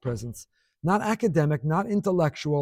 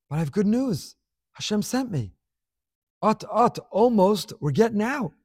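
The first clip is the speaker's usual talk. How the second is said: acting out a messenger's good news, pitched up; eager announcement; 5 semitones higher than usual. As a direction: announce rescue with rising, hopeful urgency. Moshe announcing good news to sufferers.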